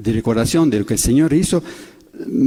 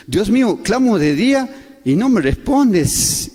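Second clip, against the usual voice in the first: pleading cry; 7 semitones higher, slower than usual. Retold or imitated. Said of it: "dice el Señor Jesús".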